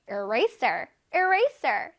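"Eraser" with an intense hissed s in the last syllable; strong s sound. Shown as a demonstration. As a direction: hit the s in "Eraser" hard. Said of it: "쓰쓰쓰 소리를 강렬하게".

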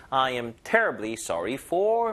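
"terribly" given the main force; stress on terribly. Shown as a demonstration. English teacher models the pattern for learners, "terribly" stressed. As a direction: lean on "terribly" within the phrase. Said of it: "요거 힘을 여다 주시고".

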